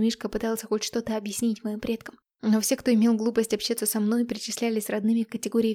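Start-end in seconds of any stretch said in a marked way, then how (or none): none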